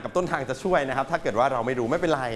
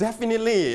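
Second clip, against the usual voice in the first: Definitely with stress on the first syllable; teacher model word; 7 semitones higher, much slower than usual. Shown as a demonstration. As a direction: say it clearly, first syllable strongest. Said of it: "Perfect pronunciation ... เน้นที่".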